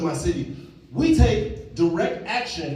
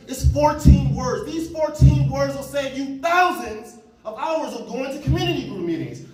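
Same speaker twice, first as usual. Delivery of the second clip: slow, deliberate, each word weighed; slow down to land the point; slow emphasis; 3 semitones higher, 3 dB louder than usual. Real, not acted. Speaker to the audience, slowing down for emphasis. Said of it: "emphatic slow build-up".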